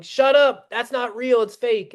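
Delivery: high, loud mock outburst, easing off; mock yelling. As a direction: imitate an expert shouting down an argument. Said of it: "when your strongest argument is yelling".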